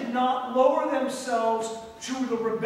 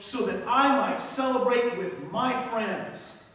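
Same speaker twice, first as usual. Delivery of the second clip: bitter complaint; 5 dB louder than usual. Acted. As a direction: list your grievances to your father. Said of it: "speak to his father that way".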